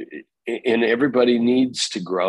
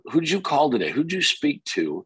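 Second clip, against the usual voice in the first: pushy boss questions; 3 semitones higher than usual. Retold or imitated. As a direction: push them to account for their day. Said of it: "a little bit of pushing".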